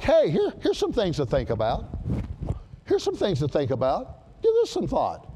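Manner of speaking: breezy laid-back offer; mocking a casual Bible. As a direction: toss it off lightly, no weight. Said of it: "That's not how it's written".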